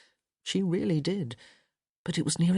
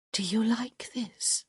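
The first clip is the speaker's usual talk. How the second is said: whispered; 6 semitones higher, slower than usual. A narrator's reading. Woman teasing her lover in bed, whispered. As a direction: whisper it close to his ear, slow. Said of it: "she whispered".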